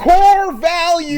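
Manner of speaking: big drawn-out shout, pitched high; shouted catchphrase. Pretend. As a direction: belt it out like a slogan.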